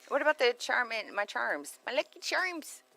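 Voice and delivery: high-pitched mock Irish twang; Irish accent. Shown as a demonstration. Host baiting co-host into the accent, mock Irish accent. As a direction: coax with a playful Irish lilt. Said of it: "little Irish twang".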